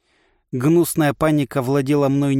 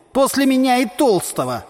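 boastful jab; 10 semitones higher than usual. A narrator's reading. Vislyi boasts in quarrel.

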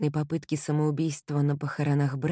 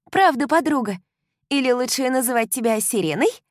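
high, loud playful friend; bubbly young woman teasing; teasing girlfriend; 8 semitones higher, 6 dB louder than usual. A narrator's reading. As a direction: tease her with a laugh in the voice. Kylie teasing.

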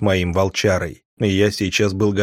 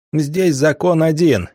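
higher, slow, spitting "Здесь закон один" with contempt; spat out; 6 semitones higher, slower than usual. Acted. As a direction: spit "Здесь" hard in his face. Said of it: "выплюнул мне в лицо вожак".

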